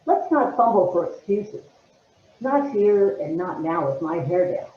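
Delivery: firmer, mildly upset monologue opening; irritated, anxious. Acted. Actress retaking the opening after notes, anxious and mildly irritated. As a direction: push it out with some irritation. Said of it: "you're anxious and you're upset".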